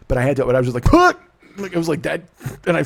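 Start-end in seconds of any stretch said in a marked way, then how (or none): 0.9-1.1 fake sneeze. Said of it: "Pretended I sneezed".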